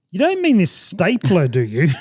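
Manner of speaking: high-pitched, disbelieving retold question; mock incredulous question. Traveller answers pestering baggage handler, mock incredulous. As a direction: ask as if it's absurdly obvious.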